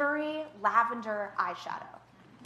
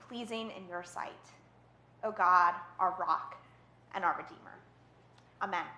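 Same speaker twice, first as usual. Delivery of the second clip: prayer. Real, not acted. Pastor asks God to speak through her, praying solemnly.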